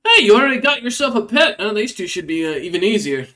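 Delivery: high, loud taunting quip; cheeky rat folk. Acted. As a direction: needle them about the pet, pleased with himself. Rat folk mocking the pet.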